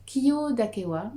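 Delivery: "Kiyo dake wa" said slowly, each syllable clear; slow, careful Japanese. Shown as a demonstration. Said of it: "Que veulent-ils dire".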